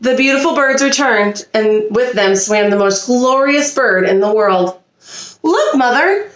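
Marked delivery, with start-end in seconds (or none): 5.4-6.3 much higher, excited swan voices; happy honking. A narrator's reading. Young swans call to their mother, much higher and excited. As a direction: call out bright and glad. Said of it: "honked the happy swans".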